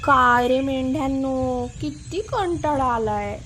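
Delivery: slow, mildly bored drawn-out words; a touch of idle boredom, words stretched. Acted. Bored boy chatting to his sheep, mildly bored. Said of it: "कंटाळा आला होता".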